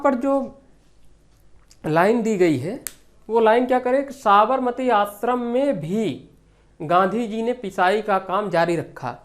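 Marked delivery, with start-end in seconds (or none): 4.1-6.3 raised phrase with weight on भी; stress on भी. Shown as a demonstration. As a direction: lean on the final भी for emphasis. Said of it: "जोर देकर कोई बात बोली जाती है".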